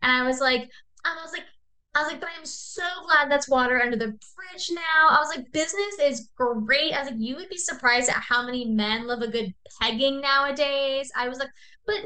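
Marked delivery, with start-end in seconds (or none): 2.2-11.1 higher-pitched fake delight; breezy, put-on friendliness; mock gushing. Playing along, fake gushing at scammer. 11.8-12.0 playfully self-important fake chumminess; mock gushing. Playing along, fake gushing at scammer.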